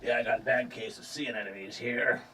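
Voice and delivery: salty sailor. Acted. Barnacled sailor showing off his sea anemones, lightly voiced salty sailor. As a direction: grumble lightly as a crusty sailor.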